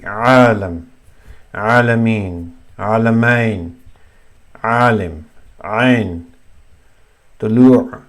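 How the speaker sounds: alam, alameen, alim with a solid mid-throat ain; prominent ain sound. Shown as a demonstration. Teacher giving example words, solid throaty ain in alam. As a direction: squeeze the throat on each ain in alam and tulu'. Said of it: "you can hear it very clearly".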